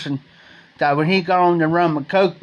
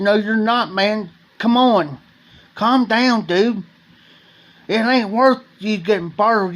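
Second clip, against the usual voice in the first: higher, pressing pleas to settle down; urgent calming; 5 semitones higher than usual. Retold or imitated. Jeff holding back Donald in the bar fight, urgent and higher-pitched. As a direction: talk a friend down mid-brawl, keyed up.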